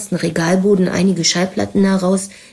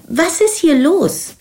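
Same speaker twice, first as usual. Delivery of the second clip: high, drawn-out demanding question; alarmed call; 10 semitones higher, slower than usual. A narrator's reading. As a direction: call out slowly, pitch soaring. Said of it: "rief Nina". (aufgebracht und gedehnt rufen)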